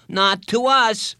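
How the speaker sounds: high, loud, drawn-out objection; stretched schoolboy indignation; indignant boy. A narrator's reading. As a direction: protest slowly, hitting each word.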